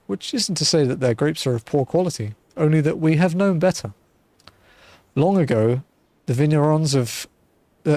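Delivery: a hint of a genteel retired mercenary, musing; easygoing storyteller tone, lightly put on; lightly voiced wine seller. Streamer reading Shamani Lomani's lines to the adventurer, lightly genteel. NPC tells vineyard history.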